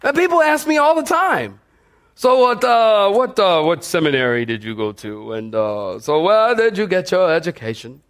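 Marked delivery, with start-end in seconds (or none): 2.1-8.0 posh Oxford professor. Pretend. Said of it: "That's my professor voice".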